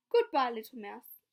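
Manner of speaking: fox fleeing. Acted. Fox hurrying away.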